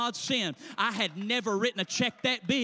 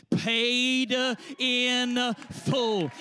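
"Paid, uh, in, uh, full" punched out word by word; each of "Paid", "in", "full" held and hit like a stamp; emphatic stamping; much slower than usual. Acted. Clerk stamping the receipt "Paid, uh, in, uh, full", emphatically spaced.

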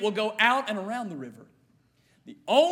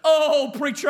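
mock fearful cry; 3 semitones higher, 5 dB louder, slower than usual. Voicing his own fearful plea.

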